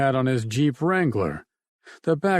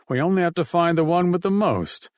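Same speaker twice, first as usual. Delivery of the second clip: "most" leaned on, a bit higher; stress on most; 6 semitones higher, faster than usual. Acted. Ted telling Emily which house to hit, stressing "most". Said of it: "He stressed the word most".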